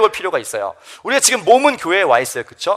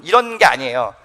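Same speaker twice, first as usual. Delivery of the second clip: ordinary delivery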